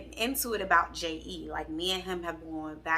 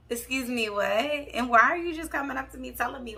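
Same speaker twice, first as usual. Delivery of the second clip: higher-pitched, affronted questioning; indignant disbelief; 5 semitones higher than usual. Retold or imitated. Storyteller answering girl who confessed about boyfriend, indignant disbelief. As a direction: challenge her in a raised pitch.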